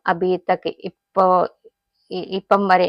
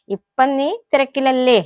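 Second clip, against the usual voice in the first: mocking; 5 semitones higher, 4 dB louder, slower than usual. Shown as a demonstration. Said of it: "കളിയാക്കി കൊണ്ട് ചോദിക്കുക".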